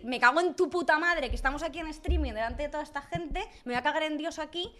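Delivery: half-earnest indignant rant; mock angry outburst. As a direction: pretend telling-off, mildly heated. Acting the angry reply she withheld.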